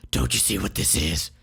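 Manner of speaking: deep, contemptuous villain; Grosvenor's voice. Acted. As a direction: scorn their blindness.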